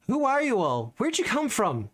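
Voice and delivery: high, curious elf woman; lightly voiced elven ranger. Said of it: "she will say".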